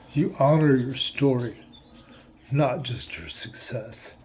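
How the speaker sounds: real tears creeping in as he reads; reading through a lump in the throat; choked up. Real, not acted. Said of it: "my eyes got watery on me".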